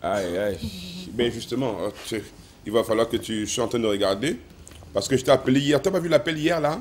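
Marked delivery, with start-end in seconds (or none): 4.9-6.8 shouting on bad phone line. Real, not acted.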